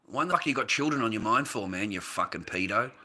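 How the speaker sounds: real indignation at a chat troll; indignant retort. Real, not acted. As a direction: throw the accusation back angrily. Angry retort to chat accusation.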